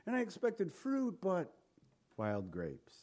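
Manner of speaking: high, soft, drawn-out lament sinking at the end; hammed-up wounded disbelief; mock plaintive God. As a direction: whine it in a put-on high voice, then drop away. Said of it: "So he's looking at Israel like that".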